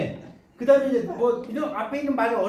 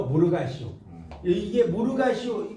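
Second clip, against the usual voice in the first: Pyongan dialect. Shown as a demonstration. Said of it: "평안도 방언".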